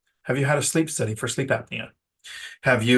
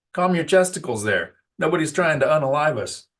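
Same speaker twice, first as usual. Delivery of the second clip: higher, playful mock reassurance to coworkers; mock calming; 4 semitones higher than usual. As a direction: tell the team to chill, half joking. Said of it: "I've said it a hundred times during meetings".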